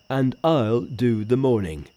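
lightly voiced Pigsy; a hint of a sulky pig spirit.

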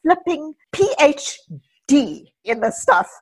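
worked-up self-reproach, emphatic; mock-exasperated self-blame; trashing oneself. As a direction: beat yourself up, half laughing at it. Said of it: "brooding and trashing myself".

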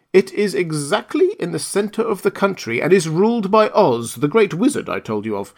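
put-on kindly old witch. Witch of the North tells Dorothy she must stay, lightly voiced kindly old woman. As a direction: break the news kindly, like a grandmother.

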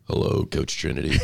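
rough, sick-sounding voice; hoarse voice. Real, not acted. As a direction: speak through a sore throat. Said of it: "I feel better than I sound".

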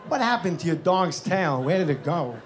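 lightly mimicked film-star voice; light impression of a puzzled actor, falling at each question's end; Christopher Walken. Actor asks comic about his tailless dog, lightly mimicked questioning. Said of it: "and he goes".

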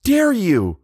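very high, slow, furious cry; gasping outrage. A narrator's reading. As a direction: draw out each word in high-pitched outrage. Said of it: "she said, gasping".

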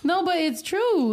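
laughing. Real, not acted. Laughing at ex joke.

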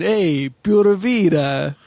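slow mock Italian-American "Hey, pura vida"; drawn-out Italian tough-guy greeting, hammed up; Italian accent. Teasing a cohost about his greeting, mock Italian accent. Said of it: "like Tony the Italian saying".

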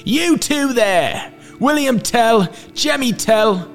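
very high, outraged calling out; villain crying out. A narrator's reading. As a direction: hail them like an angry tyrant. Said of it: "he cried".

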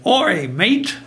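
a casual Australian greeting, lightly mimicked; Aussie accent. Tree trimmer answering the interviewer in a mild imitated Aussie accent. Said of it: "with his Aussie accent".

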